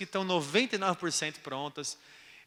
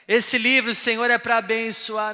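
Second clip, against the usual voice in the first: mock pious prayer; 4 semitones higher, 8 dB louder than usual.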